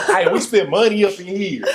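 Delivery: high, giggling protest; hammed-up laughing complaint; laughing mock protest. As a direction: laugh while acting the outrage. Acting out kicked from club.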